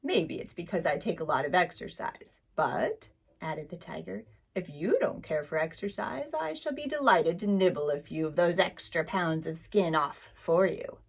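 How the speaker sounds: lightly voiced cat eyeing a meal; sly hungry tiger. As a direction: tiger offering to nibble Suki's skin, sly.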